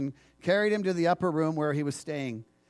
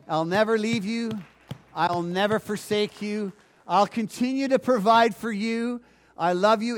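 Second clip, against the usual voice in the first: God's promise; 4 semitones higher, 4 dB louder than usual. Acted. Preacher voices God's promise.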